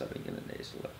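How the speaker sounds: hushed, breathy whisper. Real, not acted. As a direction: drop to a whisper on it. Repeats the line, dropping to whisper.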